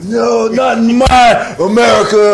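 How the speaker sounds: high, loud, slow patriotic protest; an old vet who won't allow it; indignant old grandfather. Retold or imitated. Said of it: "old grandfather's like".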